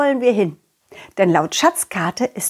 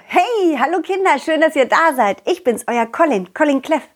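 silly clown; 6 semitones higher than usual. Acted. Clown greets the children.

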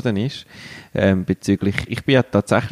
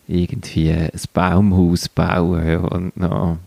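usual speaking voice

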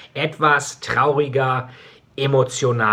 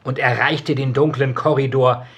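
story narration. A narrator's reading. Author reading his dark novel to listeners, solemn narration. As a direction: read it like a hushed tragic audiobook.

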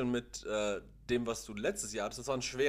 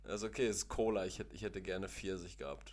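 talking around an ice lolly; sucking an ice pop while talking; mouth full. Real, not acted. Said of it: "ich esse gerade ein Wassereis".

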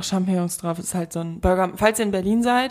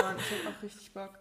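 1 laughing; 2 semitones higher, 18 dB quieter than usual. Real, not acted. Lachende Antwort.

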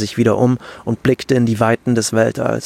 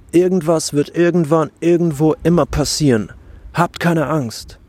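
gentle stone voice; 5 semitones higher than usual. Acted. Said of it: "sagte der kleine Stein".

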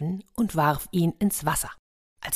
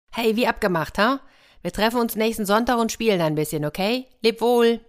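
put-on higher-pitched cheerful boy; friendly farewell call; 5 semitones higher than usual. Boy reminds shark of Sunday, friendly farewell call. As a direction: call back a promise to a friend.

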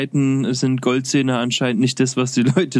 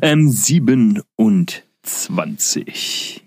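whispering; much slower than usual. Real, not acted. Whispered answer.

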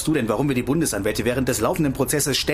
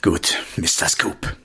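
sarcastic; 7 semitones lower, slower than usual. Acted. Spöttische Anrede nach Streit.

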